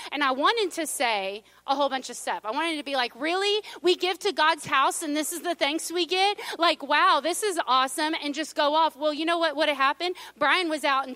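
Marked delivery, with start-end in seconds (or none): 3.2-8.1 mock outrage, pitched up at first; sarcastic indignation. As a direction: vent with incredulous sarcasm. Imagined frustrated rant to God.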